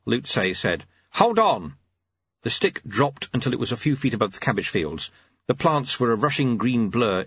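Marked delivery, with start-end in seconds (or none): 1.1-1.7 lightly voiced old man; terse old monk; old sweeper voice. Lutze voiced.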